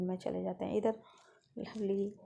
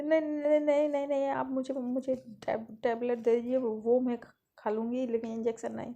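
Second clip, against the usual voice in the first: high, loud frantic protest; panicked refusal; 4 semitones higher, 6 dB louder than usual. Acted. Lovely begs mom and aunt to skip the injection, high panicked pleading. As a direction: panic like a kid dreading the needle. Child begs for tablet instead.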